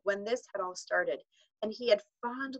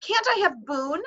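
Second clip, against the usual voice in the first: put-on much higher, hesitant boy's plea; small voice; 12 semitones higher, 6 dB louder than usual. A narrator's reading. Patrick to Omri, a small high plea. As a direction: ask timidly, hoping. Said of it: "asked Patrick in a small voice".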